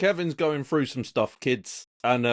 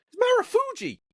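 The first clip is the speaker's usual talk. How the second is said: very high, piping little squeak. Retelling what a friend said on the phone, imitating a friend's voice. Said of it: "that was his voice of".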